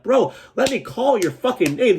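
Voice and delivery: begging a coworker for his real name, high exasperated whine; exasperated plea. Retold or imitated. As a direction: squeak it out in disbelief. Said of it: "I'm like".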